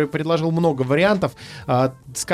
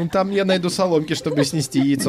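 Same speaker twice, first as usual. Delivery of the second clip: clucking hen. Acted. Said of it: "закудахтала курица".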